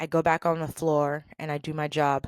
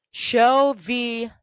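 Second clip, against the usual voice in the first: mildly excited imitation, louder and higher; 4 semitones higher, 6 dB louder than usual. Supervisor asking Stephanie to show the reports, excited. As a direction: imitate an eager boss, lifting the pitch. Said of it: "And she's excited".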